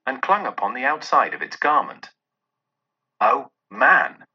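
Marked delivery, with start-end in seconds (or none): 3.2-4.2 a loud, ringing "Oh, man!" from the ghost; exclaiming ghost. Acted. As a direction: call out to the man with force. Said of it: "exclaimed the ghost".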